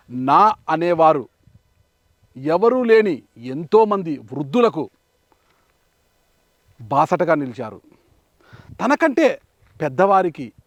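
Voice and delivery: measured delivery with long dramatic pauses; presenter's introduction. Acted. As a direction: present it solemnly, phrase by phrase. Scripted documentary introduction. (వ్యాఖ్యాత శైలిలో, ఆగి ఆగి)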